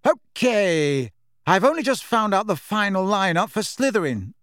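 lightly voiced brisk team captain; a hint of a keyed-up captain; Angelina voice. A narrator's reading.

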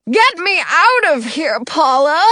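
high, loud royal demand; barked order. A narrator's reading. The king orders his wife from his gold cell, loudly. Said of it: "the king orders".

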